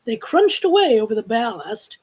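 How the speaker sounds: lively storybook reading; animated read-aloud; story narration. A narrator's reading. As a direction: read the adventure to listeners.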